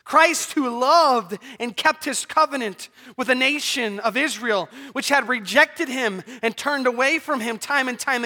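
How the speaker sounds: impassioned pulpit delivery; forceful preaching. Acted. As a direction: drive each phrase home like a preacher.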